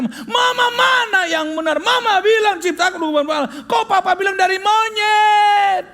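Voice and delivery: put-on high, loud screaming child; child shouting. Boy yells at his mother about monkey versus Allah, shrill shouting.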